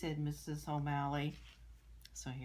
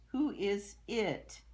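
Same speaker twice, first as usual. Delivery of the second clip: puzzled teacher; 6 semitones higher, 7 dB louder, much slower than usual. Acted. Teacher asks slowly.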